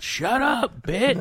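retold yell. A man in the audience yelling at the woman on her phone. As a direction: bark it from the back row. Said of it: "yelled out".

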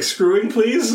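put-on high, puzzled foreign-accent question; imitating a German lodger, pitched high; mock German accent. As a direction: ask it like a confused German speaker. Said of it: "Or however she said".

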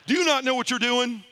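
a hint of an exasperated priest. Priest baffled at the first-timer, incredulous. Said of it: "priest exasperated".

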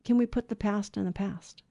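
softly spoken, mild request; quiet, understated appeal; calm. Acted. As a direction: say it gently and evenly, as a peace offering. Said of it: "we need to just calmly say".

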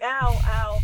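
loud comic yelps of pain; hammed-up ouch; mock pain. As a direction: cry out as if a headache just hit. Acting out Elrond's headache.

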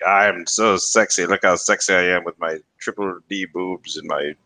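slow, mock-sultry voice; hammed-up seductive boasting; sexy cartoon siren. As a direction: play a vampy bombshell, drawn out. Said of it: "she's also meant to be".

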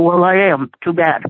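ordinary talk

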